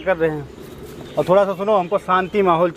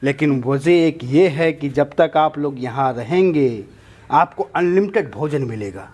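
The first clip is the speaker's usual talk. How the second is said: gang boss's speech. Acted. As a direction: lay out the terms to captives like an orator. Boss addresses the captives. (सरगना का भाषणनुमा अंदाज़)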